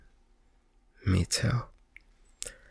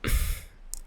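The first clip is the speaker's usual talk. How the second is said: short airy sigh. Acted. Vampire moved by partner's acceptance, sighing. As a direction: let out a short breath of emotion.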